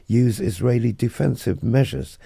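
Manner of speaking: crisp radio newsreader delivery; news read. Acted. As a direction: read it like a bulletin.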